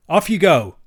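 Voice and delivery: brief and stern. Acted. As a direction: bark it off curtly. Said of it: "brief and stern".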